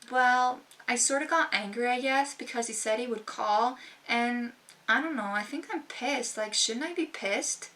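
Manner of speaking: hesitant, trailing answer full of doubt; unsure, hedging. Shown as a demonstration. Answering a friend's question, unsure and hedging. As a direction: mumble it like you need permission to be upset. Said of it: "does that sound assertive to you?".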